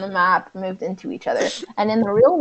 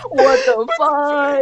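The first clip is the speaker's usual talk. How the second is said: slow wheezing laugh; crying with laughter; 6 semitones higher, much slower than usual. Real, not acted. Reading a cursed fanfic.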